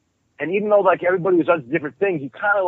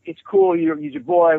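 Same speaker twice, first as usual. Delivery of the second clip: mock casual skinhead; 12 semitones higher than usual. Skinhead brushes off the beating.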